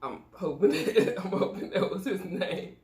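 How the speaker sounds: giggling through the words; laughing. Real, not acted. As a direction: laugh while hoping. Laughs at failed burp attempt.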